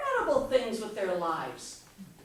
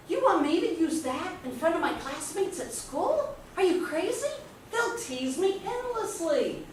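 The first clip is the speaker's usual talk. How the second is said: higher-pitched, incredulous objection; indignant protest; 5 semitones higher than usual. Retold or imitated. Child objecting to a magnifying glass at school, indignant. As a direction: balk at it like a mortified kid.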